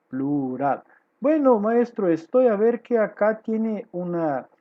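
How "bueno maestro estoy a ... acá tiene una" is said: lightly voiced student, pitched higher; a hint of a higher-pitched pupil's voice; puzzled student. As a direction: put a question to the teacher as a pupil. Acts a student questioning the teacher.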